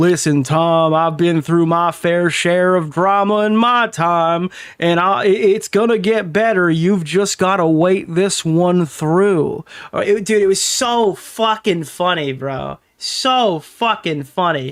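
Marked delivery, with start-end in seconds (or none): 0.0-9.6 slow, lazy, put-on southern drawl, laid on. Retelling a friend's chat message: imitating a southern drawl. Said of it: "talking with a southern drawl".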